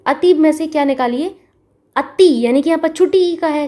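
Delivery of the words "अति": अति sounded out, punched on the final short i; short-i sound demo. Shown as a demonstration. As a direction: sound out अति so the last vowel stands out. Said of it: "छुटी ई का sound आ रहा है".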